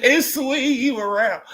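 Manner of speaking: slow, high, cracking with laughter; laughing crying. Real, not acted. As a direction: say it through tears of laughter.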